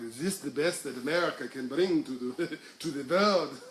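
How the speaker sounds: put-on botched German accent breaking into laughter. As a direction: imitate an ambassador with a bad German accent, cracking up. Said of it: "that was a German accent".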